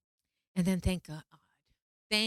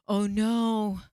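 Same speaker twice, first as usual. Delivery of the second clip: drawn-out oh no, higher and louder; retold dread; 3 semitones higher, 6 dB louder than usual. Retelling her panic at ending the universe, dawning dread. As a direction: groan it in dawning horror.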